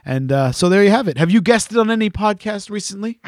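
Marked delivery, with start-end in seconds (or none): 1.2-3.2 leading question, lightly put; knowing question. Real, not acted. Host setting up his co-host about guest spots, knowingly. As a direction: ask as if you already know the answer. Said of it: "He said knowingly".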